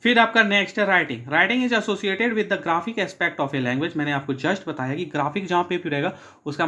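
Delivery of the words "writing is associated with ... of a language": slow definition reading; slow dictation. Shown as a demonstration. Teacher reading writing definition, slow dictation. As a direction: spell it out slowly for notes.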